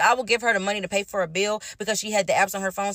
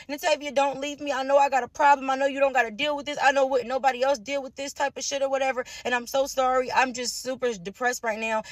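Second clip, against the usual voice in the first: higher-pitched mock tearful begging; retold crying plea; 5 semitones higher than usual. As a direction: imitate her pleading, without real sobs. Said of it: "sitting there crying to me like".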